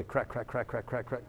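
quick, soft string of cracks; imitated cracking. Telling how she literally cracked, quietly imitated cracking. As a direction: mimic joints popping, one after another.

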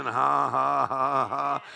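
deliberate, even ha-ha-ha; imitated laughing. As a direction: imitate a man starting to laugh. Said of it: "that guy started laughing".

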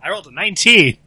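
exultant yell; loud triumphant repeat. Real, not acted. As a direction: shout it so everyone hears. Repeats big roll after being missed.

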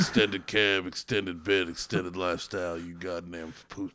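drawling Southern redneck accent, hammed up; Sam Elliott redneck voice. Bragging about his Chevy in a mock Southern redneck accent. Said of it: "my Sam Elliott redneck voice".

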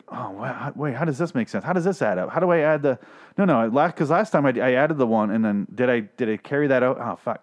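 mock puzzled muttering that builds to agitation; hammed-up baffled self-talk under strain; straining concentration. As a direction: act out someone struggling over hard sums. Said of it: "very concentrated on something while taking a shit".

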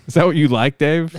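needling, loud mock accusation; loud taunt. Real, not acted. Taunting Dave with the pictures.

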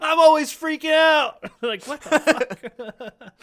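high, loud, slow manic yell; a calm old man snapping into a maniac; frantic old man. Pretend. Old man confesses his secret, high frantic yell.

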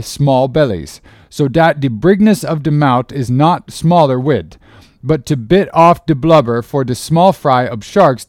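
emphatic dialect sermon, pushed up and out; old cook Fleece preaching. A narrator's reading. Old cook preaches to the greedy sharks, emphatic dialect. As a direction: preach it as the old cook, drawing out key words.

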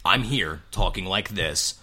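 slow, measured demo of his own voice. Shown as a demonstration. Host showing the impression's starting point, slow demo voice. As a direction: state it slowly as a reference point. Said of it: "if this is your impression of me".

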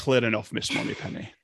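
Scottish secret-agent impression, dropping to a hush; mock suave spy, trailing into near-whisper; Sean Connery. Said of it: "And Sean Connery".

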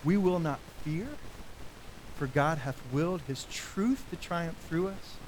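slow, solemn recitation of a hymn verse; hymn recited. Acted. Preacher reciting Luther's hymn to congregation, slow and solemn. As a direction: speak the hymn slowly, like a vow. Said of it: "but I'll just say it".

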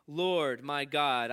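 slow, solemn psalm reading; scripture reading. Acted. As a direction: read the psalm slowly and reverently.

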